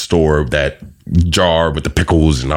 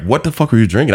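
higher-pitched mock confrontation; incredulous wife; 8 semitones higher than usual. Wife questions husband about last night's drinking, mock incredulous. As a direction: imitate a wife's disbelieving demand.

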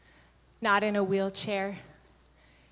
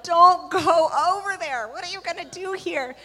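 alarmed; 8 semitones higher, 7 dB louder than usual. Retold or imitated. Arguing with herself in alarm.

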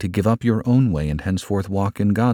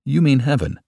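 higher, lightly pleased realization; smiling; 7 semitones higher than usual. A narrator's reading. Old man catching the visitor's meaning, smiling. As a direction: say it with a dawning smile. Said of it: "said he with a smile".

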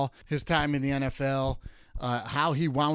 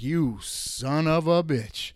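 slow, drawn-out grudging curse; mock grudging curse; 2 semitones higher, much slower than usual. Host reliving a quarterback's fake slide, slow grudging curse. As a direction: drag it out, half angry, half impressed. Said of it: "I was like".

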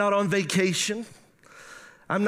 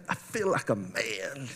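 much lower, slow, chuckling he-man voice; mock macho voice; 9 semitones lower, 8 dB quieter than usual. Preacher showing off his new truck, mock manly and lower. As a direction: ham up a deep tough-guy growl, laughing.

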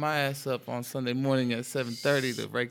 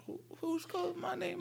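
confused; 6 dB quieter than usual. Retold or imitated. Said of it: "I'm like".

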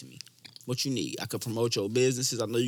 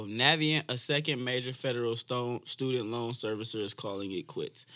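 news read; 3 semitones lower, 4 dB quieter than usual. Real, not acted. Reads a news item.

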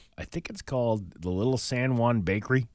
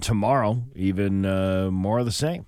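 upbeat announcer forecast voice; radio weather read; 4 dB louder than usual. Acted.

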